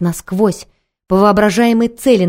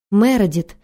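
alarmed cry; slower than usual. Acted. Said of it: "закричала она".

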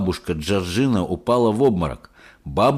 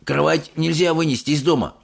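amazed grandpa asking; old man in disbelief; lightly voiced old grandpa; 6 semitones higher than usual. A narrator's reading. Grandpa Joe. (изумлённый дедушка Джо)

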